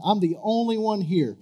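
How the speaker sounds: half-voiced complaint to God; mild gripe. Preacher first voicing Elijah's gripe, mildly. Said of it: "I love how he gripes to God".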